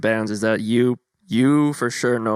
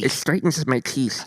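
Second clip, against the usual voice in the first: mock ad voice; 3 semitones higher than usual. Retainer mock ad line.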